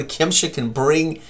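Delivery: ordinary delivery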